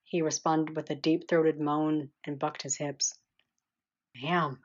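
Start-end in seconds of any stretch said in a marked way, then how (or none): 4.2-4.6 a light mumbled take on Trey's damn; soft mumbled mock Trey; Trey impression. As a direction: mumble it like him, barely changed. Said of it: "making my best Trey Pettigrew impression".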